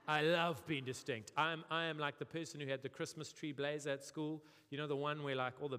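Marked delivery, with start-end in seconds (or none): 0.1-1.3 louder, slow proud claim; proud declaration. Retold or imitated. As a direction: announce it with pride. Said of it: "you're talking about distinction like it's a bad thing".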